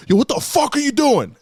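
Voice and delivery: high, sharp confrontation; annoyed kid. Retold or imitated. Kid in front turns on his bully, high angry yell. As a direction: call out the prankster with a high yell.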